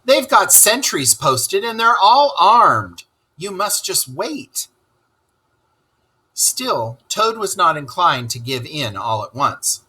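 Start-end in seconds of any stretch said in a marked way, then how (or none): 0.1-4.7 rat warns. Acted. Rat warning Toad.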